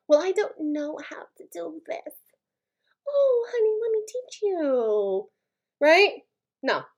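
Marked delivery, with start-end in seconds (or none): 0.1-2.1 mock helpless whine. Mocking a helpless person. 3.1-5.3 high, slow, syrupy mock sweetness; mock doting helper. Mocking the person who rushes in to help.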